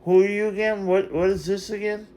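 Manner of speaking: high, mock-surprised feigned confusion; mock surprise. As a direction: act like you barely recognize them. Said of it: "I say".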